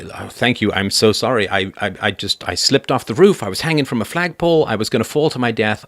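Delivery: lightly voiced sorry, grateful intruder; apologetic intruder. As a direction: plays the man who kicked in the window, apologizing profusely. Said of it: "and you say".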